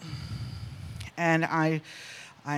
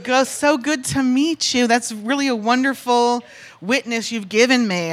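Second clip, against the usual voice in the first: slow, higher, over-polite thanks; polite gushing; 4 semitones higher, 4 dB louder than usual. Retold or imitated. Woman thanking the guy for his testimony, politely gushing. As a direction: gush politely, drawing out the greeting.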